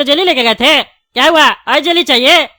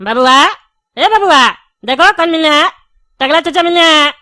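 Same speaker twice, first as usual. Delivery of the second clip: coaxing, lightly raised wake-up call. Acted. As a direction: call to a sleeping little one in short bursts. Calling to wake a sleeping child.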